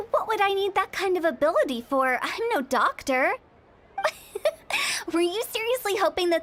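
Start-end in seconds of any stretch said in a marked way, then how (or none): 4.3-5.1 short high giggle; amused giggle. Acted. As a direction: let out a quick, high laugh. Amused at being taken for doctor.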